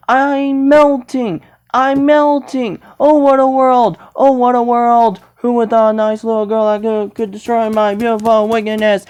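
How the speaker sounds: lightly voiced melting villain; Wicked Witch. Witch scolding Dorothy as she melts, hammed-up dying lament. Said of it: "I don't know water could destroy the Wicked Witch".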